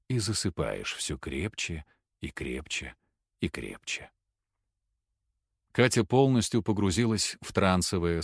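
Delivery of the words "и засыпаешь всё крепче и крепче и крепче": sinking lower and softer on each крепче; fading hypnotic whisper. Acted. Hypnotist deepening the trance, dropping low and soft. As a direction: let the voice sink away into sleep.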